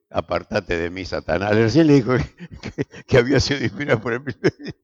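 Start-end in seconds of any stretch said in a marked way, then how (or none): 0.1-1.5 stern rebuke. Retold or imitated. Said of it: "Jesús le dice".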